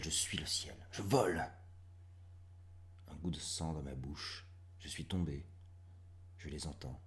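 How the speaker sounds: short phrases set apart by pauses; hushed, halting verse with sudden swells; dramatic poem recitation. Acted. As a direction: recite intensely, swelling then sinking to near-whisper. Reads last poem.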